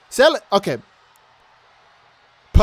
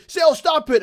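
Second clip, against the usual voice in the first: mock feeble plea; 9 semitones higher than usual.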